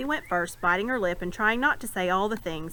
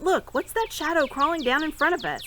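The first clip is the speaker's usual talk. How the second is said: excited; 8 semitones higher than usual. A narrator's reading. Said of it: "in great excitement".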